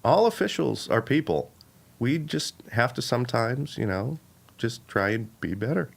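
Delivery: mild, slow commissioner with pauses; lightly voiced, halting and bland; Roger Goodell impression. Commissioner defending officials to a team owner, slow bland impression. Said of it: "pauses in between everything".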